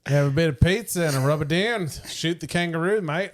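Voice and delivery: lightly put-on Australian accent. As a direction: joke like a mock Aussie bushman. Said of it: "Australian accent".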